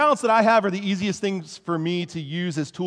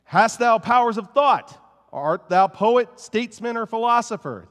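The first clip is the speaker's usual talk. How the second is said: put-on reading an old sermon; 6 semitones higher, 4 dB louder than usual. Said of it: "I'm gonna do my best not to speak in an English accent".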